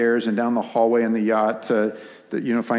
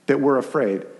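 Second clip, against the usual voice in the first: lightly voiced Peter, raised pitch, over-explaining; mouthy Peter; 3 semitones higher than usual. Preacher imagines Peter lecturing Jesus, a lightly raised, chatty voice. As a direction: play Peter as a know-it-all explaining to Jesus. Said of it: "I always picture Peter".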